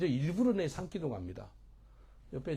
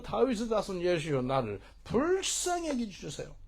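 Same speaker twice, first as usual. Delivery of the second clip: raised, high pleading call; crying out; 6 semitones higher, 4 dB louder than usual. Acted. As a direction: act out a blind beggar calling for mercy. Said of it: "소경이 소리질러 가지고". (목소리 높여 자비를 구하는 외침)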